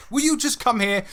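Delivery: high-pitched mock exasperation; imitated impatient wife. Wife's impatience acted out.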